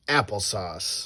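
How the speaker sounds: slow word broken by laughter; laughing. Real, not acted. Parent laughing while reading the book aloud. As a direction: dissolve into laughs on it.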